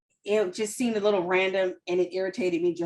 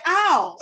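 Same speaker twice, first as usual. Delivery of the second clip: mild mock ow; 7 semitones higher, 6 dB louder than usual. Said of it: "it was more like".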